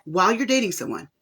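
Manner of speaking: ordinary talk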